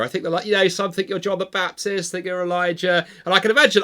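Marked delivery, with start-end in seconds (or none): 0.7-3.1 raised pitch, having fun with it; playful disciples. Acted. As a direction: tease along as a joking group. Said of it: "they're having some fun together".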